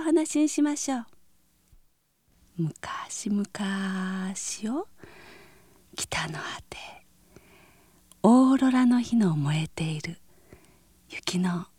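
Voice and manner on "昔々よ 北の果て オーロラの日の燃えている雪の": soft, whispered fairy-tale narration; gentle storytelling. A narrator's reading. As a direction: lull them with a gentle tale.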